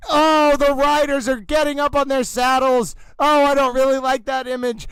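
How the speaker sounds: dramatic race-caller delivery, big swoops on ladies and gentlemen; mock race announcer. Towel who thinks he's an announcer calls the race, dramatic. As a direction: call the race like it's life or death.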